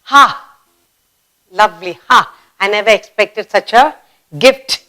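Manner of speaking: pleased gasp at a gift; a touch of happy amazement; delighted surprise. Shown as a demonstration. Teacher acting out delight at an unexpected gift. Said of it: "Again for surprise".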